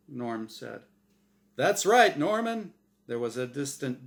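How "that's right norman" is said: chipper, higher host voice; game show host Azrael. Acted. Azrael pressing Norm to play, bright host voice. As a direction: needle him like a smug quizmaster.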